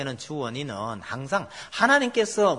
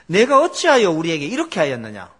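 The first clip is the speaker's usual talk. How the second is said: 조금 크게 책망하듯; 왕이 따지듯 목소리를 높여; 꾸짖는 왕; 7 dB louder than usual. Retold or imitated. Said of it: "책망을 아주 쫙 늘어놓습니다". (아비멜렉이 아브라함을 꾸짖듯 크게)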